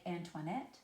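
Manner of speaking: an-toi-NETTE, final syllable stressed and rising; two light syllables, then stressed "nette" in Antoinette; anapest stress. Shown as a demonstration. Teacher giving an anapest example, Antoinette stressed on "nette". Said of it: "unstressed, unstressed, stressed".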